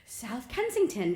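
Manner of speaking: mock-London place name, stretched out; fake British accent. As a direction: answer slowly in a bad British accent. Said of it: "where in London are you from".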